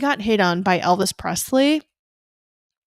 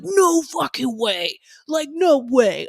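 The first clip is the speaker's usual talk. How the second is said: disbelieving; 4 semitones higher, slower than usual. Retold or imitated. Guys disbelieving her claim.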